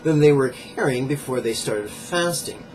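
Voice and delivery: measured book-passage reading; emphatic nonfiction read-aloud. Acted.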